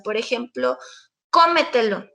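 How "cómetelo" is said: "cómetelo" stressed on the opening CÓ; stress on first O. Shown as a demonstration. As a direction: hit the first O of "cómetelo", the rest unstressed. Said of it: "el acento está en la primera O". ("cómetelo" con énfasis en la primera O)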